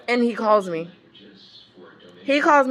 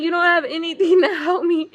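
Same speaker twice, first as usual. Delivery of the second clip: laugh-crying plea; 7 semitones higher than usual. Retold or imitated. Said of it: "I'm like".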